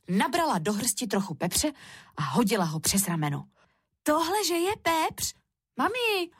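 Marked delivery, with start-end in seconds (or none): 4.0-6.3 put-on high, drawn-out child voice; questioning little Šárka. A narrator's reading. Šárka shows mami the pepper, puzzled. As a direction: ask slowly in a little-girl voice.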